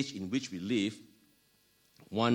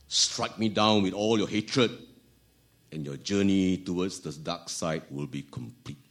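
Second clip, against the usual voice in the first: lightly voiced evil emperor taunt; a hint of a sinister, taunting villain; Palpatine; 4 dB louder than usual. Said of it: "taunted the young Jedi with his slow, evil voice".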